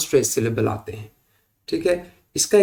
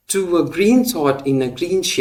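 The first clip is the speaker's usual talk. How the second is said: very slow, "to a" and "in a" light, "green thought" and "green shade" heavy; verse read slowly to show the beat; metrical reading; 3 semitones higher, much slower than usual. Shown as a demonstration. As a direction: scan the line foot by foot. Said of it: "इसमें to और a जो है वो unaccented है".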